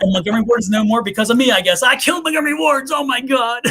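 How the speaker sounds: loud, laughing mock guilt; laughing, hammed-up confession. Real, not acted. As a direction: crack up at the joke. Joking self-blame, laughing.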